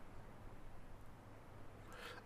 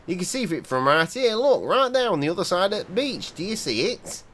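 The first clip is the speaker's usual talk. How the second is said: lightly voiced gruff old local; a hint of a wary old seaman; old fisherman; 4 semitones higher than usual. Player reading the old fisherman warning a stranger, lightly voiced.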